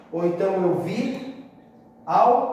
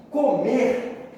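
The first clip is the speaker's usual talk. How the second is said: "comer" with the final syllable hit hard; stress on last syllable; 5 semitones higher than usual. Shown as a demonstration. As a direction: punch the MER in "comer". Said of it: "a sílaba tônica é a última".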